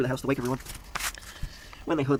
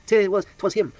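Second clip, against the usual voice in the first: accusing; 7 semitones higher, 6 dB louder, slower than usual. A narrator's reading. Accusing the murderer dramatically.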